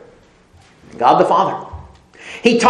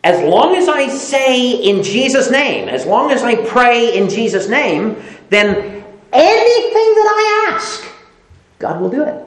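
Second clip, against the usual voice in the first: mock naive believer; 4 semitones higher than usual. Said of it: "an immature way to look at that".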